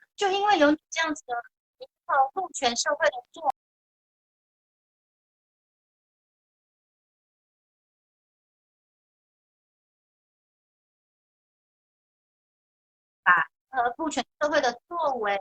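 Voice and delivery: preachy, sermonizing, lecture-style delivery. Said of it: "我来学一下郑家纯讲话的方式好了".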